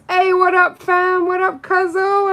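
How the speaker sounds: coworker's greeting. Retold or imitated. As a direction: shout it like a friend across the clinic. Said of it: "She goes".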